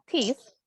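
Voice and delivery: "This" with a strong, clear "ee" vowel. Shown as a demonstration. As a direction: lean on the I in "This", as "tees". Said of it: "pronuncio más la I".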